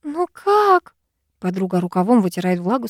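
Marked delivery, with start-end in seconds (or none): 0.0-0.9 put-on high, frantic young woman; a panicked friend, rising; Sara in panic. A narrator's reading. Sara reporting the attack to the heroine, panicked and high. Sara's voice.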